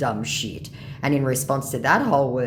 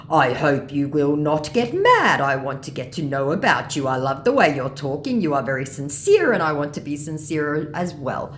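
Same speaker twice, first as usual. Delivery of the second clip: loud, hammed-up scammer voice; earnest mock scammer; 2 semitones higher, 4 dB louder than usual. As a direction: lay on the fake sincerity.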